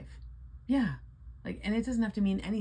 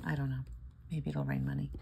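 normal talking voice

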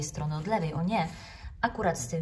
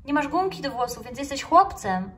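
higher, louder decisive pronouncement; verdict; 8 semitones higher, 7 dB louder than usual. Acted. Little mouse declaring the snail a boy, loud and certain. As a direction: rule on it like a tiny judge. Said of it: "zawyrokowała myszka".

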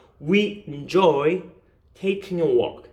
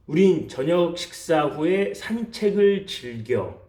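slow, spaced-out sentence reading. Shown as a demonstration. Teacher reads the practice sentence to viewers, slowly and clearly. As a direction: read it slowly for learners to write. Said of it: "다시 한번 읽어드릴게요".

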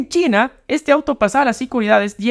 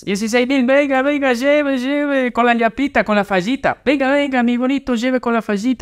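singsong street vendor hawking wares; hyped fairground barker; 2 semitones higher than usual. Acted. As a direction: call out like a market seller. Repeats the vendor pitch.

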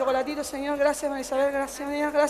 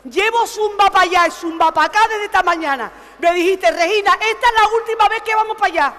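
exasperated protest; 3 semitones higher than usual. Acted.

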